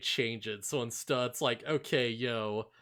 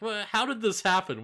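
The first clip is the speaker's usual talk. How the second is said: Palpatine; 8 semitones higher, 5 dB louder, faster than usual. Retold or imitated. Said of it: "immediately Palpatine's like".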